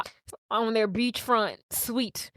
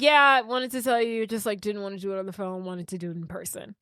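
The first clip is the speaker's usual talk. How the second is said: nonchalant; 2 semitones lower than usual. Acted. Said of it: "He's very nonchalant".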